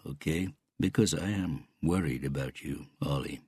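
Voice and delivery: lightly voiced uncle, measured and controlled; understated Canadian uncle coaching his nephew; wary Canadian uncle.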